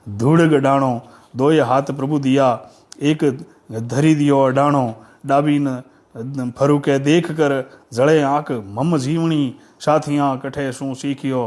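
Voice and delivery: measured, metrical poem reading; declaimed folk poetry with pauses at each phrase; verse recitation. Acted.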